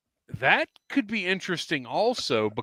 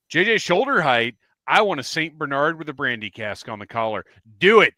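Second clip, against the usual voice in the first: tipsy and thrilled, shouting it out; 3 semitones higher, 5 dB louder than usual. Real, not acted. Tipsy excited pitch, loud demands.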